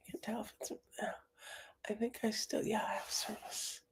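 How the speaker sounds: unvoiced whisper while checking the connection; whisper to self. Real, not acted. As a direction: mutter it under your breath, unsure if heard.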